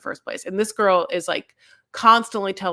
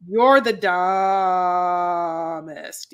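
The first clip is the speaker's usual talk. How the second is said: mock shout; much slower than usual. People scolding Jamie, mock shouting. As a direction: bark it like a scolding crowd. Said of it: "They're like".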